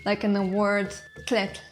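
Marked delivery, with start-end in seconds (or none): 1.3-1.6 tletl with tl as one released consonant; t and l together. Shown as a demonstration. Teacher showing a single sound, tletl with fused tl. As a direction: say tletl with t and l at once at both ends. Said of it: "pronounce t and l at the same".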